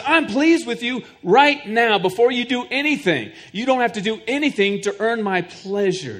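preacher voicing God's affirmation of his son. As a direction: announce it as God's own blessing. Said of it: "God says".

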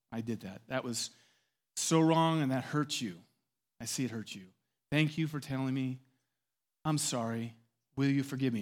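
sincere, subdued apology; humbled admission. Acted. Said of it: "I swallow my pride".

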